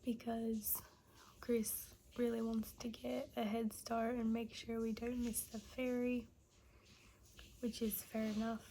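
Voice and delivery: hushed early-morning whisper. Real, not acted. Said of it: "early morning, others asleep".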